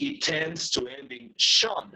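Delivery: slow, with "shon" said as one clear syllable; model ending sound. Shown as a demonstration. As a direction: slowly show the English "shon" ending. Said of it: "That is the pronunciation".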